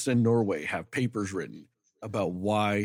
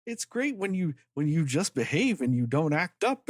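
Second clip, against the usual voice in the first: lightly mimicked, higher-pitched scolding Uncle Sam; Samuel Jackson as Uncle Sam; 7 semitones higher than usual. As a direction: pitch it up, imitating a mock-approving lecture. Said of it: "And then Samuel Jackson's like".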